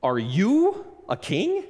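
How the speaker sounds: repeated disbelief. Retold or imitated. Pilate pressing Jesus over and over, incredulous. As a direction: keep asking, unable to believe it. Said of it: "he keeps on asking this question".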